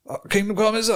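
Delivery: high, smug mocking clerk; a smug clerk voice, lightly done. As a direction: sneer it like a know-it-all at the counter. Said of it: "he was like".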